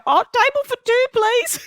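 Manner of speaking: very high, chirpy mock nonchalance; breezy request. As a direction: ask for the table as if it's nothing. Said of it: "I go".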